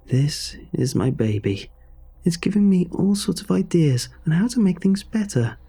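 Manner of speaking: lightly voiced aunt, fervent and coaxing; entranced aunt. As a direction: coax them like a devoted believer in her creation.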